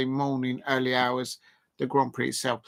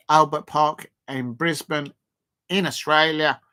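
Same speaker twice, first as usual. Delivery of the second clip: put-on a light Australian accent on Australia. Streamer to viewers, lightly putting on an Australian accent. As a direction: put a bit of Aussie twang into it. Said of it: "that was a quite good Australian accent".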